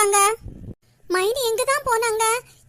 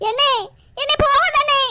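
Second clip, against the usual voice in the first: tearful begging; 3 semitones higher than usual. Acted. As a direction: beg him through tears to stay. Sister begs them not to leave. (அழுதுகொண்டே கெஞ்சுதல்)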